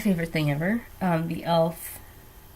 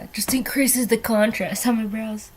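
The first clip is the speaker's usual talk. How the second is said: normal talking voice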